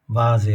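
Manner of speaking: "ভাজে" with a voiced V at the start; foreign-word V sound. Shown as a demonstration. Teacher explains foreign words in German, voiced V sound. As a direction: model "ভাজে" with V, never F. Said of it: "বয়ের মতন".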